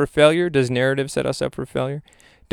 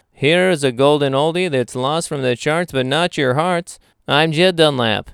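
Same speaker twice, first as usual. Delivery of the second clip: radio announcer voice; 2 semitones higher, 5 dB louder than usual. Acted. Host presenting an oldie to Radio Land, announcer voice. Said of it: "That's my radio announcer voice".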